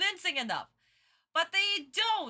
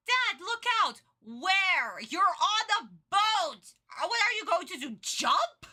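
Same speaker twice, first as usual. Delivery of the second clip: higher, hammed-up kid yelling Dad, look out; mock kid voice; 4 semitones higher, 3 dB louder than usual. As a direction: shout it like a panicked little boy. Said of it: "little Kajiki was like".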